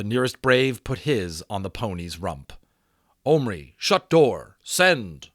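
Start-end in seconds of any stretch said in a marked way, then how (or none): 3.2-5.3 loud, clipped command in broken English; urgent order. A narrator's reading. Chief orders the boy to send his men, loudly. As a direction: bark the order to go. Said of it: "ordered Little Bear".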